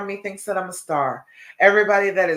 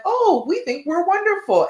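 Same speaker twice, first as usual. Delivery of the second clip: voicing the brain; 12 semitones higher, 4 dB louder than usual. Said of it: "your brain is like".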